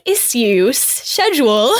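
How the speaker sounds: imitating a British accent on "Issues, schedule", said "ISS-yoos, SHED-yool"; a light British accent for "schedule" said "SHED-yool". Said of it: "they all have British accents".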